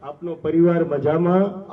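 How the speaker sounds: slow, courteous greeting with folded hands; polite respect. Retold or imitated. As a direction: ask gently, like a king honouring his gardener. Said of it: "હાથ જોડીને ઉભા રહીને કહેતા". (ધીમું, વિનમ્ર, આદરભર્યું અભિવાદન)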